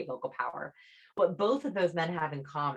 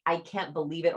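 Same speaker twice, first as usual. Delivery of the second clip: a light rising "I can't believe it", genuinely amazed; amazed disbelief. Shown as a demonstration. Demo of a friend's real amazement at big news. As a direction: toss it up like real surprise. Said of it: "Sometimes we'll do it in a".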